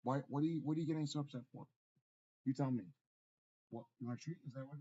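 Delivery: calling over the fuss to the pet; talking to the dog. Real, not acted. Owner to fretting dog, loud and insistent.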